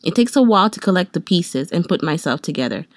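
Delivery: reading a gloomy journal entry aloud; solemn mock-poetic reading; mock dramatic reading. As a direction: read it like dark poetry. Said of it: "this is how it goes".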